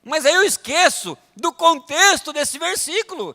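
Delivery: loud, high scripture proclamation; fervent sermon quotation; full-force preaching. Real, not acted. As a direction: hammer out the verse, stretching key words.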